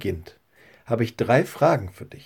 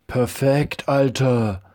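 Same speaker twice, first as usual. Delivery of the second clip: put-on cheering boy; 3 semitones higher than usual. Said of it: "rief Levi seinem Freund zu".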